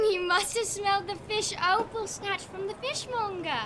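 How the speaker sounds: cooing at a pet. Acted. Child talking to the found cat, playful cooing. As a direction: fuss over the cat affectionately.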